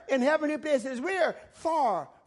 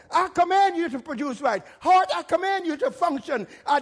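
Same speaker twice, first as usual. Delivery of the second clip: commanding; 4 semitones higher, 3 dB louder than usual. Shown as a demonstration. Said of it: "command your body to obey".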